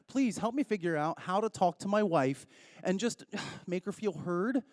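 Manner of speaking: mock-fretful plea spoken softly to an app; dictating to the phone. Shown as a demonstration. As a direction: talk quietly into the phone as if typing a request. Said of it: "I'm gonna show you. Watch".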